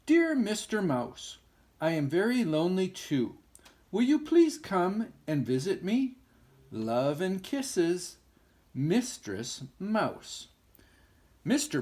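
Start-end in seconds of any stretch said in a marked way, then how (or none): 0.0-10.5 letter voice. Acted. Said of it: "The letter said".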